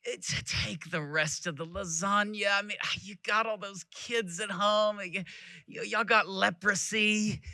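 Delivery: soft imitation of a pitying Texan lady; sympathetic lady. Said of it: "the sympathetic".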